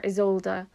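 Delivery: Isolde with a separate final de sound; Isolde, German way. Shown as a demonstration. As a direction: Isolde as iz-OLD-duh. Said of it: "which is more German".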